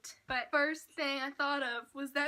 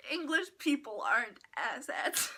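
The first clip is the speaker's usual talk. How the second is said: put-on English accent. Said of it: "talking with an English accent".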